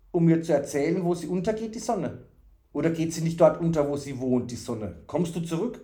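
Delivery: a hint of a childlike simpleton full of questions; eager, naive fool. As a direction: plead with innocent curiosity.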